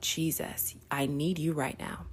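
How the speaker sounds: Moses's soft whispered cry for help; desperate whispered prayer. Retold or imitated. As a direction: whisper it up to God. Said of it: "looking up at God like".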